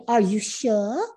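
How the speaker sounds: lightly imitated English accent; soft-r English accent, questioning lift at the end. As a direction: quote him with a touch of English accent. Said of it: "like, English accent".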